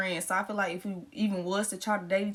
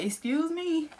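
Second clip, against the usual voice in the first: going off; 3 semitones higher than usual. Retold or imitated. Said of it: "going off on him".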